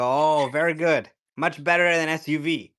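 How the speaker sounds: high mock Asian grandma, approving; imitating Asian grandma. Grandma approving of the Cybertruck, in a high imitated voice. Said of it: "this Asian grandma".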